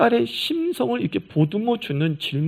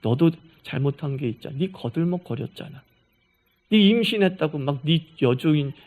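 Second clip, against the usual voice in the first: soft careful advice; 5 semitones lower than usual. Retold or imitated. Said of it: "부드럽게, 조심스럽게 한마디 하는 거예요".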